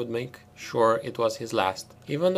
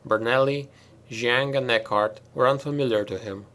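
usual speaking voice

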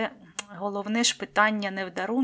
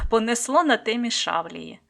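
laughing; 2 semitones higher, 6 dB louder than usual. Real, not acted. Laughs at own rambling.

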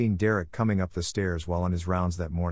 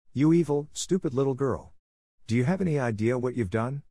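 put-on furious scream at a girl; 4 semitones higher than usual. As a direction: shriek it with rage. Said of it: "she screamed".

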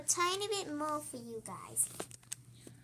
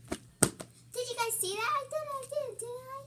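excited bragging; 11 semitones higher, 4 dB louder than usual. Real, not acted. Boasting to the camera.

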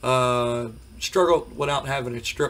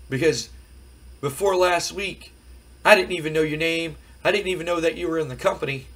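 Scott Steiner impression; 3 semitones higher than usual. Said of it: "I can't do a Scott Steiner without doing Scott Steiner".

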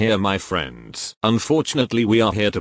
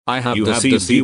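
overlapping accusation; 4 dB louder, much faster than usual. Acted. Both accuse each other at once.

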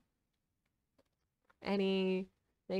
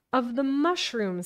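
caterpillar voice; 4 semitones higher, 5 dB louder than usual. Acted. Caterpillar answers.

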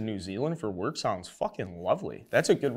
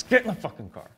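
a loud, higher, pretend command; mock order; 10 semitones higher, 5 dB louder than usual. Host ordering the injured pitcher back to Wrigley, mock loud. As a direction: boss him back to the ballpark.

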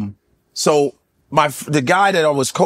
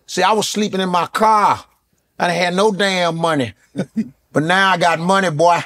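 a lightly voiced Steve Harvey bragging; Steve Harvey impression. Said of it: "He said".

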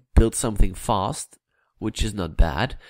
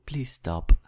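higher, mock pleading "please stop"; put-on pleading voice; 4 semitones higher than usual. Begging Kiraxo to stop, in a light put-on higher voice. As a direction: lightly play a whining sidekick. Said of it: "starting to do the voices again".

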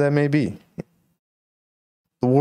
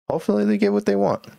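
much higher, fast, in a cartoonish squeak; squeaky high voice; 14 semitones higher, much faster than usual. Vlogger to viewers, wishing truckers well in a squeaky high voice. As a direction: chirp the wish up high and quick. Repeats the wish in a put-on voice.

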